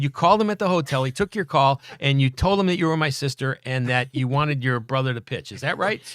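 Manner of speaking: retold disbelief. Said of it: "I said".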